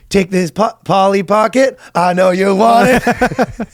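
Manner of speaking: hammed-up little kid singing it; kid's voice. Father quoting son in a mock kid voice. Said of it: "He goes".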